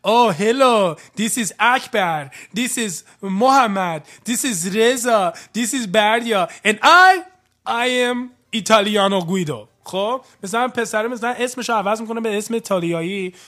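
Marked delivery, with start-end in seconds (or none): 0.1-9.7 mock Italian-wannabe intro. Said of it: "بعضی موقع میگه".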